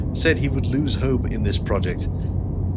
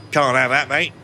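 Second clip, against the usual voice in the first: put-on Mancunian accent; 5 semitones higher than usual. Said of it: "'cause I have a bunch of Mancunian friends from Manchester".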